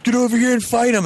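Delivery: high-pitched imitation of a goading bully; egging on. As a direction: imitate someone spurring on a fight. Imitates the other dude urging fight.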